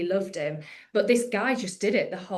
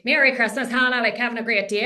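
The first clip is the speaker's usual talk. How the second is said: louder Irish family greeting; Irish accent; 3 semitones higher, 6 dB louder than usual. Acted. Irish family greeting Hannah on Christmas Day, Irish accent. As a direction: put on an Irish relative's Christmas cheer. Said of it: "my dad's Irish".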